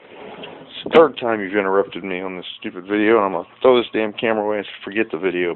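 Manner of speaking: loud, fast, exasperated venting; fed-up rant. Real, not acted. Vlogger fuming at viewers over interruptions, loud fast rant. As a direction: blow off steam at the interruptions. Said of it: "Getting pissed".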